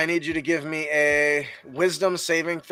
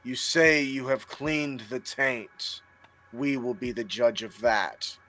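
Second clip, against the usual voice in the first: booming arrogant alien overlord; 4 dB quieter than usual. Acted. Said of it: "The big booming voice echoes".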